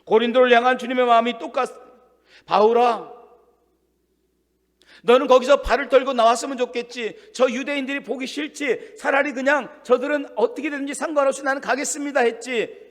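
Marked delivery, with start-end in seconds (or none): 2.4-12.9 God speaking to Paul. Acted.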